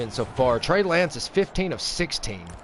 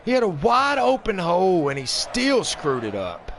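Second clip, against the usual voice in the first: high, loud exasperated rant; exasperated shout at the blown run; frustrated yelling; 10 semitones higher, 4 dB louder than usual. Real, not acted. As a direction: yell in disbelief at the runner.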